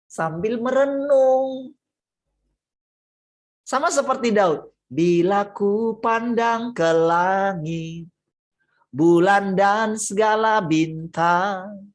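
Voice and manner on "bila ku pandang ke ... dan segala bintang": prayerful recital. Acted. Quoting David's psalm slowly.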